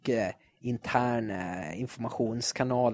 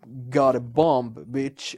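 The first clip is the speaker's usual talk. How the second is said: action hero one-liner; much slower than usual. Retold or imitated. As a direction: deliver it like a cool movie hero. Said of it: "alla jävla actionfilmer när man bara". (långsam, cool actionhjälterepliken)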